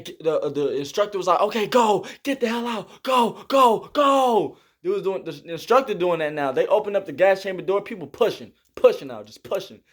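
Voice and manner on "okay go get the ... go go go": higher, louder urgent commands; mock shouted orders. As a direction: hurry them out like an instructor. Instructor ordering everyone out.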